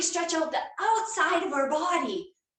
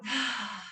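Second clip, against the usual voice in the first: slow exhale; 4 semitones lower, 6 dB quieter than usual. Shown as a demonstration. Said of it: "deep breath out".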